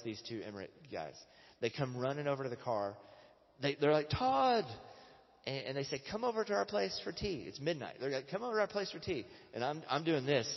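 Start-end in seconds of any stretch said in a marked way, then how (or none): 4.1-4.6 high, drawn-out shout of a name; excited calling out. Retold or imitated. Emiratis run over calling his name. 6.1-7.9 high-pitched, excited imitation of a host; eager invitation. Acting out the eager late-night invitation. 8.3-9.2 high-pitched, excited imitation of a host; eager invitation.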